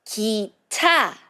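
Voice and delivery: teacher modeling 기차; model for repeating. Shown as a demonstration. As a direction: say 기차 for the class to copy. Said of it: "let's repeat one more time".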